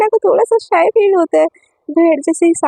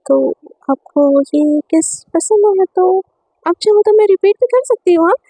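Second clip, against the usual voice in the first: teasing; 3 semitones higher than usual. Acted. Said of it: "थोड़ी सी शरारत सोचती है".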